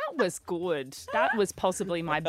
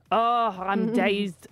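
slow, faltering stab at Scottish; badly attempted Scottish accent; slower than usual. Host tackling the clip on air, clumsy Scottish accent. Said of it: "Hold on, that was bad".

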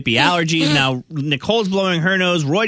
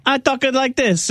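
imitating Elena; 9 semitones higher than usual. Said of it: "emulate Elena on the radio".

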